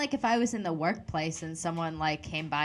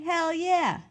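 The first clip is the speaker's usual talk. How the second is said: high-pitched, gleeful cheer; hyped reply; 10 semitones higher, 4 dB louder, slower than usual. Acted. Flattered worker answers a coworker's compliment, loud and hyped. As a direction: shout back, thrilled.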